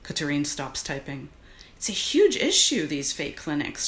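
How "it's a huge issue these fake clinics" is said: urgent activist. Acted. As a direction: lecture him like a campaigner. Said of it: "she says in her activist voice".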